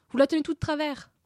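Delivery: Alice alarmed calling out; cry out. A narrator's reading. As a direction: shout a sudden warning. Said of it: "s'écria Alice".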